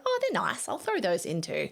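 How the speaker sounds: delighted by what she sees; pleased surprise. Retold or imitated. Photographer spotting laughing shots, pleased surprise.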